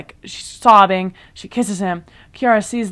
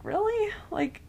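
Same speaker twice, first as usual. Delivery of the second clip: sassy comeback; 5 semitones higher, 4 dB quieter than usual. Retold or imitated. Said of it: "And it's like".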